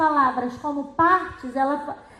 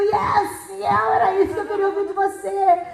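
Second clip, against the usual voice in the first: higher, louder, delighted teacher reply; 4 semitones higher, 4 dB louder than usual. Retold or imitated. Teacher delighted by Miguel's question, higher and louder. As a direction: cheer the child's good question.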